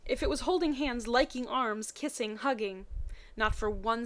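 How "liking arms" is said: usual speaking voice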